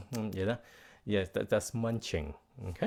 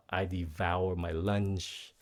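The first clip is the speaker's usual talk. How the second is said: slow example; 2 semitones lower, slower than usual. Shown as a demonstration. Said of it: "you can say".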